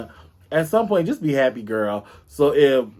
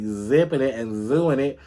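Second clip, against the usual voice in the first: Wendy Williams catchphrase. Retold or imitated. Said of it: "as Wendy would say".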